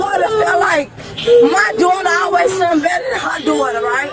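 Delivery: high, shouted complaint; shouting. Real, not acted. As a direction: yell over the officer. Shouting at officers.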